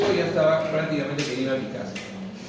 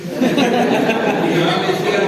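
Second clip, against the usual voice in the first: laughing; 3 semitones higher, 5 dB louder, much slower than usual. Real, not acted. Laughing while retelling mother.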